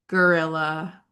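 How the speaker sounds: gorilla with a rising tune; rising question tune. Shown as a demonstration. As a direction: ask it, gorilla?. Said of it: "you can split the difference".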